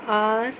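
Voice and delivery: आर held long on its opening "aa"; demonstrated vowel sound. Shown as a demonstration. Teacher points out the vowel sound, आर drawn out. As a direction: open straight on the vowel in आर and stretch it. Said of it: "अ का sound आ रहा है".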